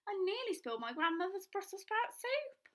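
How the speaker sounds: cross at nearly spilling; indignant girl. Acted. Girl complains.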